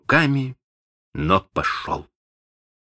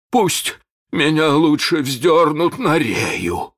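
slow, stubborn, defiant refusal; 9 semitones higher, 4 dB louder, slower than usual. Acted. Starkey stubbornly defies Hook, slow and firm. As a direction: dig in your heels. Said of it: "заявил упрямый Старки".

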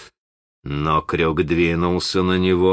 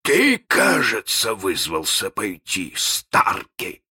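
insinuating; slower than usual. Acted. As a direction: purr the question slyly. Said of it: "вкратчиво пошептавшись".

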